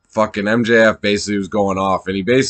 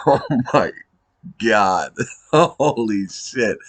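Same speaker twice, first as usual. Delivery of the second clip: laughing it out slowly, stunned; half-laughing "holy shit" in shock; laughing disbelief; slower than usual. Real, not acted. Fan reacting to the MJF promo, laughing in disbelief.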